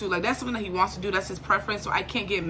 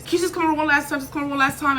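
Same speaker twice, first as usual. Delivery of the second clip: imitating Husky; 5 semitones higher, faster than usual. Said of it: "this is Husky telling me this".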